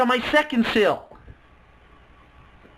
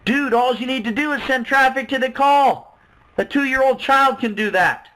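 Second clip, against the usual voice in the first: mock pushy; 4 semitones higher than usual. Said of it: "She was tenacious and told me".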